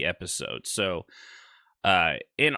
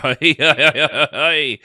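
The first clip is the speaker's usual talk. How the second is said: put-on Irish accent; 5 semitones higher, 10 dB louder, slower than usual. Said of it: "you guys' Irish accents".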